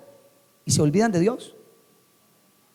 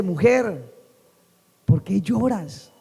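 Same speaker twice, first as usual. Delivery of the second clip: tender; much slower than usual. Acted. The Lord speaks to someone weeping, tender. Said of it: "el Señor es muy lindo".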